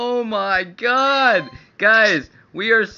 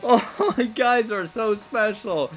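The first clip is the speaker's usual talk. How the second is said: choked-up, happy crying; tearful gratitude. Real, not acted. Streamer thanking viewers for donations, tearful and overwhelmed. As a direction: speak through overwhelmed tears. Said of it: "I'm crying right now".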